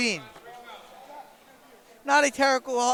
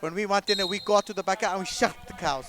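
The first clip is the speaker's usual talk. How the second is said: put-on Russian accent; 4 semitones lower, 3 dB quieter than usual. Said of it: "Something's wrong with my Russian accent".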